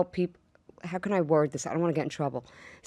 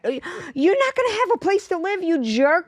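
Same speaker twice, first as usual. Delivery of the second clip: mock exasperation; 7 semitones higher than usual.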